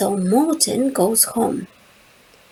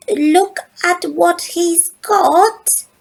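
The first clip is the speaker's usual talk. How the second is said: 1 amazed, drawn out; 8 semitones higher, 4 dB louder, slower than usual. A narrator's reading. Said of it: "Lotte says".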